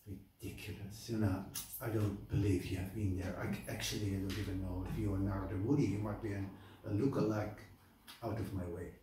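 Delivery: low, quiet scorn; dismissive Brahmin. Acted. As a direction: dismiss him with understated contempt. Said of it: "the Brahmin goes like".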